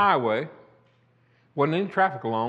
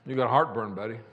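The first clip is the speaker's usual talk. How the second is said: wife teasing; 6 semitones lower, 5 dB quieter than usual. Retold or imitated. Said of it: "She kinda looked at me like".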